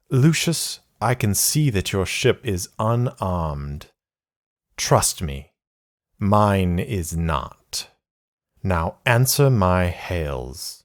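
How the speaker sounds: a lightly voiced cold enemy commander, threatening; menacing villain. Villain threatens over comm.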